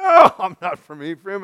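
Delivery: high, loud, hammed-up protest; acted frantic denial. Guy answering the guards at the river, frantic denial. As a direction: play a caught fugitive protesting too much.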